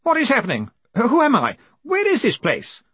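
very high, moaning questions; high-pitched wail of confusion; bewildered moan. A narrator's reading. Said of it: "moaned Stowley".

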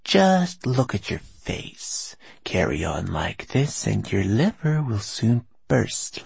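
slow, scolding whisper. A narrator's reading. Moss woman scolding, whispered.

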